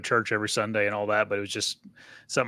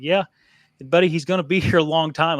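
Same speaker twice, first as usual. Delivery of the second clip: laughing reassurance; 5 semitones higher, 5 dB louder than usual. Retold or imitated. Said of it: "And I'm like".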